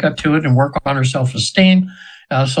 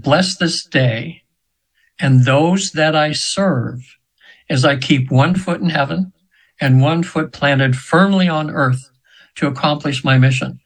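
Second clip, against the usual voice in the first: slow, measured prayer; slower than usual. Retold or imitated. Repeating the heard prayer to radio listeners, slow and reverent. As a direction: recite it slowly, like a prayer. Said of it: "I heard a prayer".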